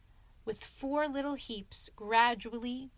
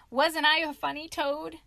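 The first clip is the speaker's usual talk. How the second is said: laughing, higher and louder; gleeful laugh; 5 semitones higher, 6 dB louder than usual. A narrator's reading. Mole boasting to friends, laughing. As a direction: crow about the trick.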